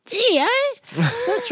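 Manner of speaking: amazed exclamation. Retold or imitated. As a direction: squeal it out in awe.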